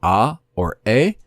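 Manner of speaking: "ah" and "a" as separate vowel sounds; vowel sounds demonstrated. Shown as a demonstration. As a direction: sound out "ah", then "a", distinctly. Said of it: "is gonna be pronounced".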